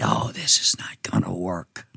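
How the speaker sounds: low, menacing whisper of a demon; eerie whispered demon taunt. Acted. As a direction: hiss it like a sneering demon. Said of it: "Demons said".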